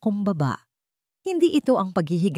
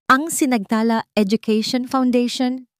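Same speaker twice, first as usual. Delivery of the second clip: higher, louder, confident presenter voice; confident pitch to the board; steady confident voice; 6 semitones higher, 4 dB louder than usual. Acted. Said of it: "ang kanyang boses ay matatag".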